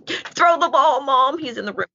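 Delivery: dog demanding the ball from mom; dog's voice. Pretend. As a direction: nag mom to throw the ball. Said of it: "my dog's going".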